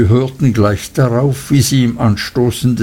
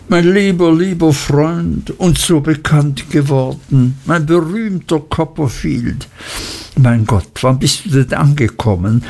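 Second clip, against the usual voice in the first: higher, gushing questions tumbling out; overjoyed friend; 3 semitones higher than usual. Acted. Traddles welcomes his famous friend, gushing and higher. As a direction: bubble over with joy at seeing him.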